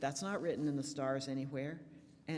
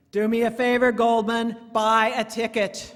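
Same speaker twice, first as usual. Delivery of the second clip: booming voice of God; 7 semitones higher, 15 dB louder than usual. Acted. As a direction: boom it down from the heavens. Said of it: "a loud voice says".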